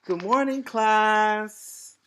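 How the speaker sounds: high, loud roaring greeting; costumed teacher roaring hello; lion's roar. A narrator's reading. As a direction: roar it like a playful lion. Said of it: "said the lion with a roar".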